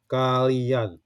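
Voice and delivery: "Kalian" with the final syllable an stressed. Shown as a demonstration. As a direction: say Kalian with the weight on an at the end. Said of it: "the stroke is on an".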